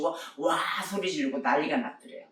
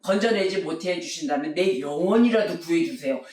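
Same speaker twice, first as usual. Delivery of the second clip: desperate prayer; 3 dB louder than usual. Retold or imitated. Drowning young man praying in the rapids, pleading. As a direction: beg God for your life. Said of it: "이러고 기도를 하더라는 거예요".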